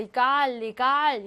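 이 깔 and 리갈 with weight on 깔 and 갈; stress on second syllable. Shown as a demonstration. Teacher groups loanwords for students, back stress on 이 깔 and 리갈. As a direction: lean on the last syllable of 이 깔 and 리갈. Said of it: "강세가 다 이 강세입니다".

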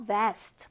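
"vest" begun on a proper V; clear V sound. Shown as a demonstration. Teacher reminding learners about the V, clear V sound. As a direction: say "vest" with a careful V at the start. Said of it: "V 발음을 잘 해주셔야 돼요".

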